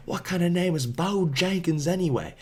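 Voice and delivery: the stranger scoffing at the name, a high mock scoff. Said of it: "he's finally like".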